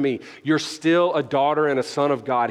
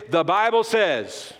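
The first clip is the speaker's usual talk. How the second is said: emphatic declaration; slower than usual. Shown as a demonstration. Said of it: "You know what that sounds like today?".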